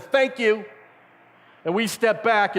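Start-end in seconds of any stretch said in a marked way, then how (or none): 0.0-0.6 a light, higher hint of a smug devil; lightly voiced gloating Satan. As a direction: thank them like a devil gaining ground. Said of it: "Satan takes a step forward and says".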